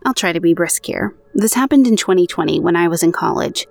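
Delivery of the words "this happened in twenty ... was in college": even, measured podcast read of a true ghost story; narrating an eerie personal account; story narration. A narrator's reading. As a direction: read the listener's account aloud, steady and clear. Reads out next listener's story.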